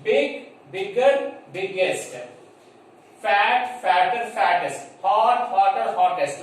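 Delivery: slow, deliberate "big, bigger, biggest"; teacher reciting forms slowly; slow teaching recital. Shown as a demonstration. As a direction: lay out each form slowly for the class. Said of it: "So it becomes".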